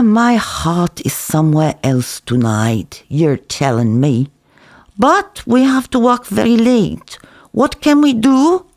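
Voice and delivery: lightly voiced café owner, mock weary; Zeev pleading. Cook persuading the narrator to work late, coaxing. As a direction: coax her into staying late.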